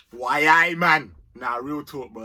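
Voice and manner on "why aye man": a bad Geordie "Why, aye, man"; dodgy Geordie accent. Football vlogger mocking Newcastle fans, dodgy Geordie accent. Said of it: "Allow my dodgy accent".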